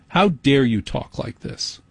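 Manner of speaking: slow, mock public-radio cadence; pretentious public radio delivery. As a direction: draw out "talk like this" in measured mockery. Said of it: "I hate N P R for its pretense".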